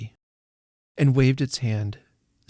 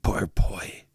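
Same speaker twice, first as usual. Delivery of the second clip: low, hushed pity; 3 semitones lower than usual. A narrator's reading. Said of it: "in pity for his former self".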